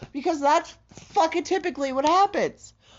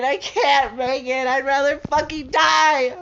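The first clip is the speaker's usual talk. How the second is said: louder, sob-choked outburst; real crying; 3 dB louder than usual. Real, not acted. Vlogger despairing over money before payday, crying. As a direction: let it break into a sob. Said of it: "what you're listening to right now is an episode".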